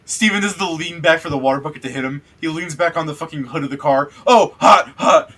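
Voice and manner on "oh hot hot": high, loud yelp of pain. Acted. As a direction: yelp as the hood burns. Leans on hot car hood.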